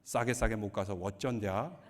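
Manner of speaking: Korean dialect. Retold or imitated. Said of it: "사투리로 말하면".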